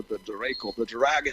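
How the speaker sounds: hammed-up dragon impression; lightly put-on film-star dragon voice; Sean Connery. Shown as a demonstration. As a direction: play a dragon with a famous actor's voice. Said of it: "I'd probably do the Sean Connery voice".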